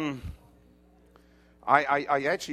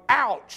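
high, loud yelp of pretend pain; mock pained "ouch"; 7 semitones higher, 7 dB louder than usual. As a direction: yelp as if your arm's twisted. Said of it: "Until you go".

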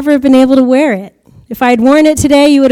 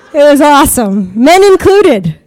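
gleeful; 2 semitones higher, 3 dB louder than usual. Real, not acted. Tells a joke about her height.

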